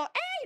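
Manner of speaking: a quick startled cry, retold; retold yelp. Yanking the girl back by the hair, a high yelp.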